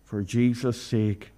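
fervent prayer, rising with feeling; earnest pleading prayer. Acted. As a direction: pray earnestly for the family. Leads a closing prayer.

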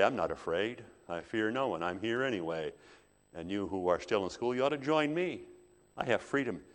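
mildly cocky schoolboy defiance; defiant, bold. Acted. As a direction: brag that nobody rules you, lightly acted. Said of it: "Defiant, bold".

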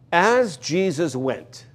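drawn out, measured reading; slow the phrase down to savour it; unhurried reading of As Jesus went. Shown as a demonstration. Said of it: "that's the wonderful phrase in this".

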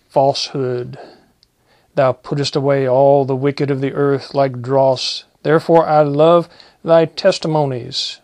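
solemn King James reading voice; scripture reading. Acted. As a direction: proclaim the verses to the church. Preacher continues psalm reading.

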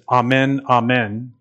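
Amen with a broad ah, said ah-MEN; Aramaic word. Shown as a demonstration. Preacher gives the Aramaic word, Amen said ah-MEN. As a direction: give Amen as ah-MEN, open ah sound. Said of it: "In Aramaic, it's".

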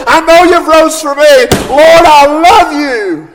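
Peter crying out to the Lord, high and loud; fervent pulpit cry of devotion; grieved, impassioned plea. Acted. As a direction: plead at preaching pitch, drawing out the key words. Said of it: "he's grieved the third time".

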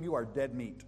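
ordinary talk

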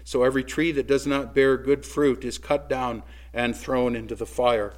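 fiery rebuke. Acted. Pastor voicing John the Baptist rebuking crowds, fierce preaching. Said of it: "I don't think he would win any winsome awards".

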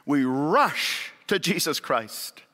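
ordinary delivery

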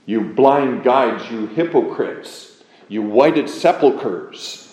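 slow, weighted rebuke, each epithet drawn out; Jesus's sharp condemnation. Retold or imitated. Preacher quoting Jesus to the leaders of the Jews, sharply condemning. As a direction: pronounce each charge slowly and deliberately. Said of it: "Jesus was so sharply condemning".

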